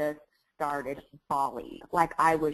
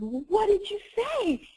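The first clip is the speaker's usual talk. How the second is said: high, urgent retold asking; pressing husband for the answer; eager question. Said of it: "And I said".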